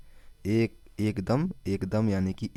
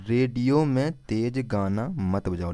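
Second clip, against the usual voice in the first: slow mnemonic; slower than usual. Shown as a demonstration. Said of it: "Revanth Reddy को कैसे याद रखेंगे?".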